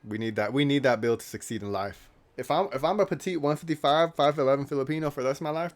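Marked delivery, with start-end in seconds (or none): 2.4-5.8 comic despair. Real, not acted. Exaggerated self-pity rant.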